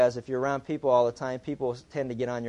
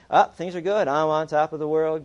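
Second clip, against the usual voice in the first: mock elation; 2 semitones higher, 5 dB louder than usual. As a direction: play the on-top-of-the-world believer, louder. Believer when things go well.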